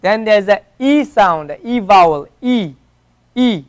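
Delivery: long ee sound; a clear ee like easy; e vowel. Shown as a demonstration. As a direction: model the ee vowel. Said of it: "like easy".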